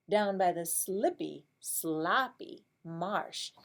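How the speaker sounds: slow singsong storybook voice; reading to a toddler. Acted. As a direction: draw it out for little kids. Reading picture book to class.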